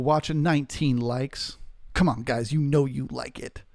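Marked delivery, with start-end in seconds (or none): 1.9-3.6 squeaky little pirate voice. Acted. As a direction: play a squeaky pirate coaxing the viewers. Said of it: "You like that squeaky pirate voice".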